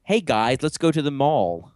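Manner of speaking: drawn-out American mall-goer voice; mock American accent. Host parodying their own country's accent, mock American. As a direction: exaggerate an American accent, stretching the end. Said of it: "we definitely have accents".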